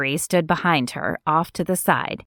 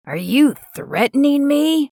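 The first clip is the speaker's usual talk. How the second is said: high, sharp indignant question; louder, affronted challenge; 7 semitones higher, 3 dB louder than usual. Acted. Gregory confronts Zeke angrily.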